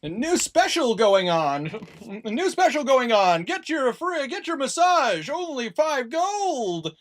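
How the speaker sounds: high, loud, slow market cry; street hawker calling. Acted. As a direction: sell it to the whole street. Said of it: "calling out, going".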